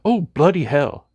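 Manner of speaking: cartoon Australian exasperation; mock Australian. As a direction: bark it out like a jokey Australian. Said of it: "that would be more Australian".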